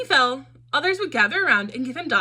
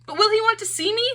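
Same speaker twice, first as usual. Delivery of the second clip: calling after her, higher and louder; a hopeful, anxious cry to someone leaving; 9 semitones higher, 4 dB louder than usual. A narrator's reading. Punchinello calls after departing Lucia, higher and louder. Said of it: "Punchinello cried out".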